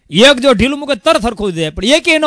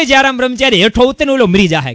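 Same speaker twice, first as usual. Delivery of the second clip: retold call, a bit louder and higher; calling shout; 4 semitones higher, 4 dB louder than usual. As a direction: call out to stop the fight. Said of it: "મહારાજ બૂમ મારી". (બૂમ પાડીને બોલાવવું)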